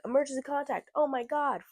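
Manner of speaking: frantic, high and loud; retold freak-out. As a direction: imitate a flustered nurse freaking out. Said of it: "freaking out".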